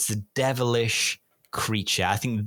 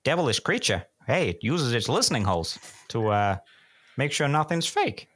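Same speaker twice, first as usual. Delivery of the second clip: put-on Minnesota accent; 2 semitones higher than usual.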